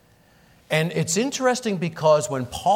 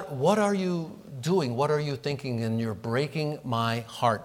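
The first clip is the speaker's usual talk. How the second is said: tender plea. Retold or imitated. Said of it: "a rather a tender, affectionate response".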